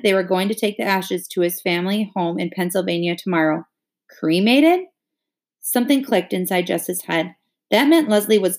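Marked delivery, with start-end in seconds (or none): 4.1-4.9 sharp rising high disbelief; shocked question. Acted. Jess hearing of the cremation, shocked. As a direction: hurl the word back in shock.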